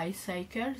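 "Ice Cycles" said with a French accent, as "i saikel"; French-accented English. Real, not acted. Naming the candle to viewers, in French-accented English. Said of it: "Vous m'excuserez pour mon accent".

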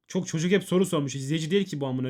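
loud, fed-up complaint at chat; exasperated outburst. Real, not acted. Streamer complains to chat about questions, loud and exasperated. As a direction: vent it loudly to the stream.

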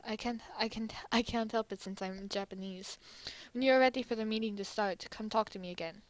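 lightly voiced, soft-spoken Japan; a hint of a courteous, modest host; polite, reserved Japan. Japan tells America he can't help being polite, lightly reserved.

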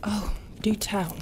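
slow, sneering whisper; captain mocking her sailor's flimsy excuse; sarcastic whisper. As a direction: drawl it out, daring him to go on.

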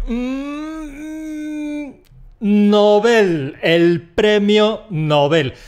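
mock Nobel stressed on the first syllable; wrong Nobel. Teasing a learner who says Nobel wrong. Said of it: "Esto es un apellido".

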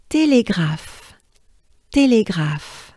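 "Télégraphe" slowly, with French é; French model. Shown as a demonstration. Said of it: "break it down".

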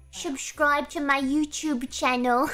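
put-on British accent. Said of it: "British people be like".

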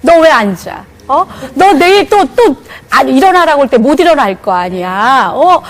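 put-on scolding child. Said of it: "제 입에서 뭐가 나오냐면".

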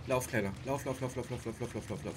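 urgent chant, fading; rapid frantic urging to run; being chased. Real, not acted. Fleeing chasing creatures.

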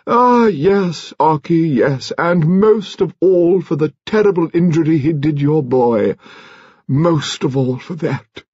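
high, impassioned outcry easing at the end; crying out. A narrator's reading. Lady Lacklander telling Ocky of the remorse, crying out. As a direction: cry out, then slow with weight. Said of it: "she cried out".

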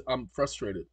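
high, whiny mock robot voice; rising into a high, loud fake whimper; mocking the AI's reply in a whiny voice; mocking the chatbot. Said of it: "he says".

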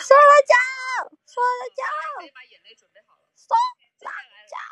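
very high cheer breaking up; voice-cracking fan shout. Real, not acted. Fan cheers for a singer, shouting till the voice breaks. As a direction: scream the idol's name till the voice cracks. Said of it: "喊得都破音了".

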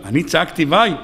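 "וואי" asked low with a rising tune; incredulous question. Acted. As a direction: scoff back at the accusation. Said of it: "הוא אומר". ("אני צעקתי וואי?" בשאלה מופתעת ונמוכה)

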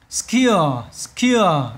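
"Secure" with the second syllable drawn out and falling; second-syllable stress. Shown as a demonstration. Teacher shows students the stress, second syllable of "Secure". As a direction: lean on the CURE of "Secure". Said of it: "nhớ năm hai nha".

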